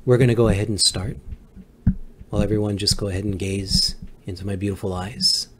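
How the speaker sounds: quick, hurried calming voice; fast ASMR talk. Pretend. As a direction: rush through the relaxation. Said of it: "I am your Zen master".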